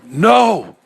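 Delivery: high, loud shocked cry; horrified cry. A narrator's reading. Man seeing an eyeball in his arm, horrified cry. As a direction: gasp it out in horror.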